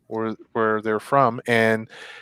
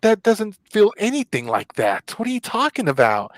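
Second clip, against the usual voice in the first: higher, scornful disbelief; dismissive scoff; 8 semitones higher than usual. Retold or imitated. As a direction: brush off the comparison. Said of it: "I'd be like".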